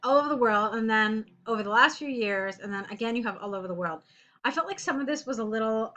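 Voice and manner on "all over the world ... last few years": "all" and "last" pressed a bit louder; teacher showing a student wordy phrases; pointing out repetition. Shown as a demonstration. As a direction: read out the phrases to show the repetition. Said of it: "'Cause look at this".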